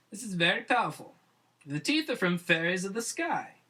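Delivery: a lightly voiced witch doctor; wise witch doctor.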